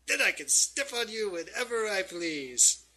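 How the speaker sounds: high, loud, theatrical villain voice; threatening villain. Acted. Villain threatening to turn adventurers into slugs, hammed-up menace. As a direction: toy with your victims grandly.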